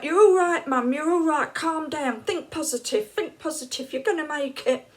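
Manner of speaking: calm a panicking mum; imitating the daughter soothing mum; reassuring daughter. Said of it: "She's like".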